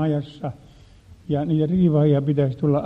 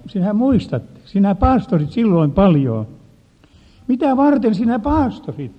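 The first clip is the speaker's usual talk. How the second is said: voice of Jesus; 5 semitones higher, 5 dB louder than usual. Retold or imitated. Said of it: "Jeesus muistutti minua".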